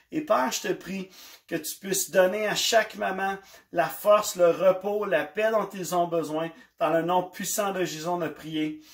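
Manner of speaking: calm fervent prayer voice. Acted. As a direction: pray softly for every mother. Prays over the mothers. (voix de prière)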